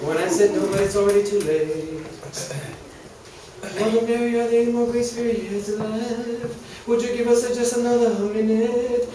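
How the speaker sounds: a lightly preached comic prayer; mock sermon. Comic preacher praying to Mother Mary, lightly preached. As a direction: pray over the flock, half in jest.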